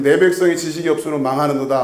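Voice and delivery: brisk run-through of the verse, level pitch; misreading. Shown as a demonstration. Teacher showing how listeners would misread the verse, brisk misreading. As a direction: read it straight through quickly, ending on 망하는도다. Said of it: "이렇게 읽을 거란 말이에요".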